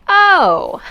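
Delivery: loud oh then a laugh; sheepish giggle; embarrassed laugh. Acted. Realises mistake, laughs.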